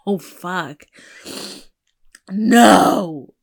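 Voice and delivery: loud laugh-cry fighting back tears; laughing through tears. Real, not acted. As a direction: crack up as the tears come. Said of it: "I'm about to start bawling".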